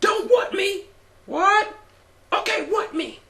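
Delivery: very high, slow, unhinged, crazy ranting. Retelling a wrestler's rant to the audience: imitating R-Truth's crazy rant. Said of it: "Truth goes on a crazy rant".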